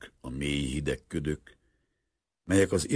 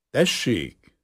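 louder, higher call to come in; 7 semitones higher, 6 dB louder than usual. Acted. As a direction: answer a knock at the door. Calls to a knock at door.

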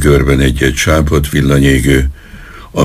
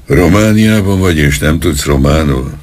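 angry policeman; 3 semitones higher than usual. Acted. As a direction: scold him for not speaking Romanian. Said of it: "kérdezte a rendőr haragosan".

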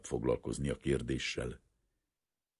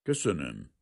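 understated icy thanks. Acted. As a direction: say it coldly, without raising the voice. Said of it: "mondta fagyosan a tiszt".

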